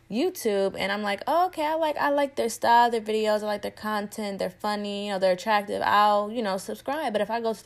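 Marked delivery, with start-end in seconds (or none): 1.3-5.8 excited. Retold or imitated. Imitating herself watching a video.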